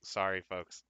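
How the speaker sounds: talking while biting something; muffled by something in mouth; mouth full. Real, not acted. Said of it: "I'm gonna have to bite this".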